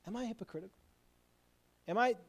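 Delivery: hushed, reflective asking; quiet self-questioning. Acted. Person stepping back to question themselves, quiet and reflective. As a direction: pause and wonder softly to yourself. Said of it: "take a moment and step back and say".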